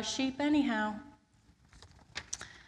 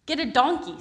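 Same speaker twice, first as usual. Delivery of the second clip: put-on wise old sage; 6 semitones higher, 8 dB louder than usual. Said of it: "said the wise man".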